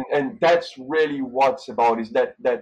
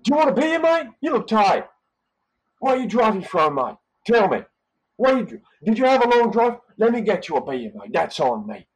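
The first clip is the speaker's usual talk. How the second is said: higher, louder friendly Australian mate voice; Aussie hospitality; 10 semitones higher, 4 dB louder than usual. Retold or imitated. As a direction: chat up a tired guest like an Aussie host.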